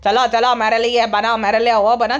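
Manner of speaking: bossy sethji. Retold or imitated. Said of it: "तो वैसा करता है". (सेठ जी जैसी नीची आवाज़ में नकल)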